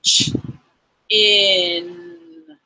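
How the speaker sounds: "Ch-" then "in", split apart; sound by sound. Shown as a demonstration. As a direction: tap out "Ch-" and "in" separately. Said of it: "Sometimes I like to do it on my arm".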